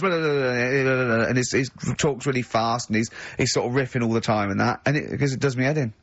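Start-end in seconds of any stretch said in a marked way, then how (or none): 0.0-1.2 mock chatterbox. Mocking a friend who talks too much, light babble. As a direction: mimic someone who never stops talking. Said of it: "Robin sort of goes".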